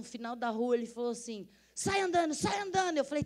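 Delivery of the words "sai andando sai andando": retold order to leave. Robber ordering her out.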